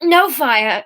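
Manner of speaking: slow, winded croak; slow croak after a fall. Acted. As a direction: croak it out from the floor. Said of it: "she croaked".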